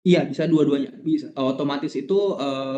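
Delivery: choppy, cutting-out connection; broken-up call audio; glitching robot. Real, not acted. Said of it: "suaranya putus-putus di saya".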